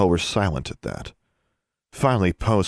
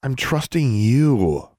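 slow, higher earnest plea; 6 semitones higher, 4 dB louder, much slower than usual. A narrator's reading. Girl answering the elves, earnest. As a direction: stress it slowly and sincerely. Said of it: "she replied earnestly".

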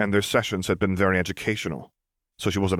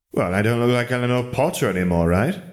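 higher, a touch louder, cheeky retort; pleased little girl; 4 semitones higher, 3 dB louder than usual. Acted. Lily answering Wizard Lennon, a bit higher and cheeky. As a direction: toss it back proudly.

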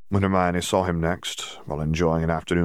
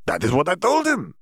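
almost sighing; 12 semitones higher, 3 dB louder than usual. Acted. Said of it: "almost sighing it".

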